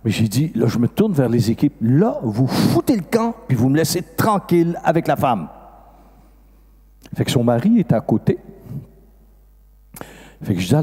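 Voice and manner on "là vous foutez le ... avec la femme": exasperated order. Retold or imitated. Priest ordering the teams away.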